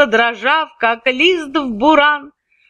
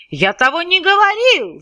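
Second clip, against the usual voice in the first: shouting denial; 7 semitones higher than usual. Acted. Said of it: "закричал он".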